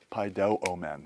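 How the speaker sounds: pai do o men, accent on "do"; accent "do", three syllables back in "pai do o men"; "pai do o men" stressed on "do". Shown as a demonstration. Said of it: "use the acute".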